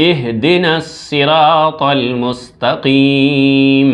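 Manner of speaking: slow, drawn-out recitation; slow melodic tilawat. Shown as a demonstration. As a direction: chant the verse slowly. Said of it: "একত্রে তিলাওয়াত করতে হবে এইভাবে".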